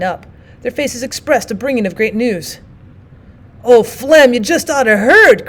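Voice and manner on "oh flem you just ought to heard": loud, eager outburst; eager cry. Acted. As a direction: burst in with the news. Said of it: "cried one eagerly".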